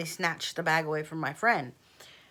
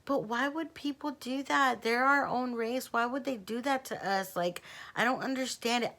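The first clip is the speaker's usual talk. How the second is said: bewildered lament; 5 semitones higher than usual. Retold or imitated. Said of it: "I was like".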